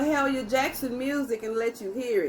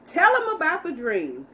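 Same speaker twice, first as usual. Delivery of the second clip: raised, higher call of encouragement; shouted plea; 3 semitones higher, 3 dB louder than usual. Acted. A singer urging Martin from the podium, raised shouting voice. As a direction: push him to tell the dream, loudly. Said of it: "she shouted".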